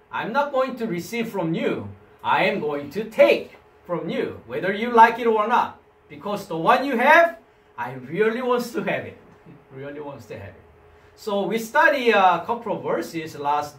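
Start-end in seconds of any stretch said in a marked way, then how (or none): 0.1-7.4 louder and higher, pushy and grabbing; mock greedy taker. Teacher acts out lambano as a pushy grab, loud. 9.7-10.6 much softer repeat of "Really wants to have it"; soft echo. Shown as a demonstration. Teacher softly echoes the taker's craving to the class.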